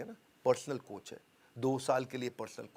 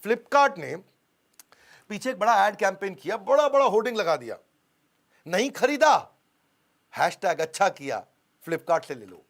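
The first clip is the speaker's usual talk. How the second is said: louder, higher, punchy ad voice; excited announcement; 5 semitones higher, 9 dB louder than usual. Acted. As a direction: shout the ad slogan like a hype man. Excited retelling of ad slogan.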